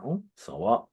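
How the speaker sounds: a cheeky, unbothered comeback; mock shrug of indifference; breathy dismissive retort. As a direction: toss it off in a whispered shrug. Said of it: "Jackie was like".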